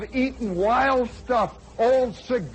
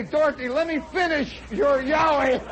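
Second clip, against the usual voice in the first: mock cheerful offer; 4 semitones higher than usual. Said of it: "Or do you say".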